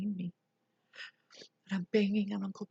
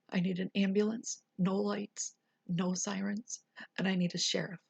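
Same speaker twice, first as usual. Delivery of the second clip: firm and louder, a mild mock yell; retold yell; 4 dB louder than usual. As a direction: cut the dispatcher off, forceful. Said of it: "I yelled at her".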